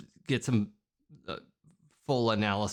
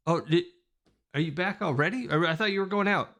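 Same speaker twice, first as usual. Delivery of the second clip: surprised character; 5 semitones higher, faster than usual. Acted. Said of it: "she's, like, taking notes, like".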